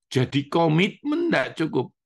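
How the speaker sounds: ordinary talk, nothing marked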